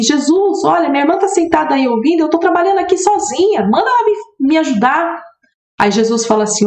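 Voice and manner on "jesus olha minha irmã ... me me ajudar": rising, higher-pitched busy sister's plea; Martha's complaint. Retold or imitated. Martha asking Jesus to make her sister help, higher and rising. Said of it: "Marta vai lá e fala assim".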